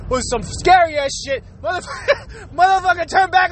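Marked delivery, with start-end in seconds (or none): 1.6-3.5 laughing through words. Real, not acted. Laughing while telling.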